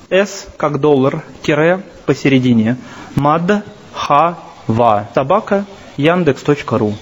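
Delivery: slow, letter by letter, spelling it out; slow dictation. Shown as a demonstration. Lecturer dictating his email to listeners, slow and spelled out. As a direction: dictate the address slowly, syllable by syllable.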